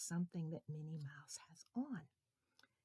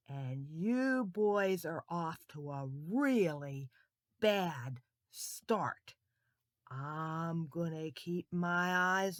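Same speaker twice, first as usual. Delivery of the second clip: stern teacher; 6 dB louder, slower than usual. Acted. New teacher warning the boys, stern. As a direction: lay down the law slowly. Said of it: "the lady".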